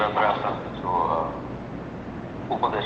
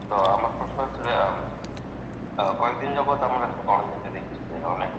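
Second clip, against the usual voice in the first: louder; 2 semitones higher than usual. Real, not acted. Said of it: "যতটা জোর আছে ততটা জোরে বলেন".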